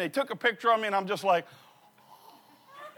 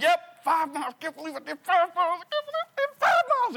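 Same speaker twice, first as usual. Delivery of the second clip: rising, very high, faster boast; giddy bragging; 12 semitones higher, 5 dB louder than usual. Retold or imitated. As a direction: brag higher each time. Bragging to Jeremy.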